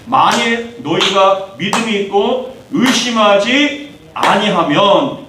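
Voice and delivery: slow scripture reading. Acted. Reading the verse aloud.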